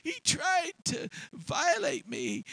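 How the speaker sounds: high-pitched feigned victim; shrill accusing wife. Acted. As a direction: hold up the coat and accuse, high. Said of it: "She said".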